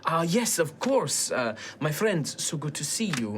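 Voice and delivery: put-on courteous host with a light European accent; slight European accent. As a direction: greet a friend in a hint of European accent. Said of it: "European accent".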